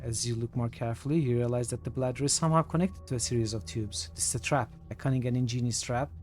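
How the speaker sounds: measured storyteller reading aloud; game text narration. A narrator's reading. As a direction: read it out evenly, each phrase falling at the end.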